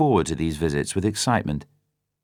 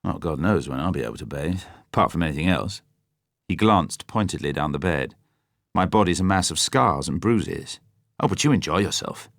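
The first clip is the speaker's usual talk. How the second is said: bitter. Acted. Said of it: "the bitterness and injustice in his voice".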